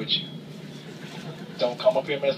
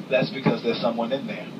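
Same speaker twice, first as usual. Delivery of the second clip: disgusted; 3 semitones lower than usual. Retold or imitated. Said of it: "with a disgusted look in my eye".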